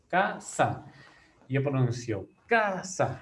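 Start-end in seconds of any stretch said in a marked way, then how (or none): 0.1-0.8 "Casa" said as ca... sa; split into syllables. Shown as a demonstration. Teacher showing pupils the two syllables, said apart. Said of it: "La separo en sílabas". 2.5-3.2 "casa" with a long, stressed CA; stress on first syllable. Shown as a demonstration. Teacher showing the penultimate syllable carries the force, stressed and drawn out. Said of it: "La mayor fuerza de voz está en K".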